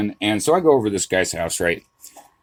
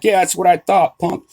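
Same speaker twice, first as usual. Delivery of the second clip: retold yelling; 7 semitones higher than usual. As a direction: imitate yelling a taunt across the square. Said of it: "I'm yelling at him".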